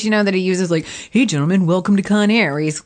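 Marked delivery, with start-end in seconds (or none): 1.1-2.5 flight attendant voice. Retold or imitated. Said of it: "In his little stewardess voice".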